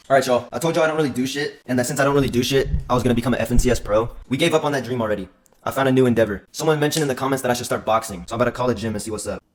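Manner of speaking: loud vlog intro. Real, not acted. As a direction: hype it up for the camera. Loud address to camera.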